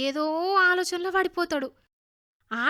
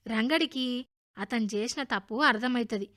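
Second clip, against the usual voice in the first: ordinary delivery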